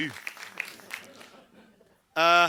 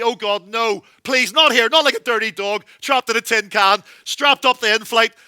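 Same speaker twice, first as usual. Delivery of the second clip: louder, pleading dread; mock dread; 2 semitones higher, 5 dB louder than usual. Passenger dreading death on the plane, pleading. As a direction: beg not to die here.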